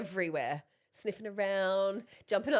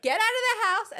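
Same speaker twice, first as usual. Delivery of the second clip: high, loud mum yell; raised-voice command, mock frantic; retold shouted order; 12 semitones higher, 6 dB louder than usual. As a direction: imitate a mum ordering everyone out. Friend orders kids out.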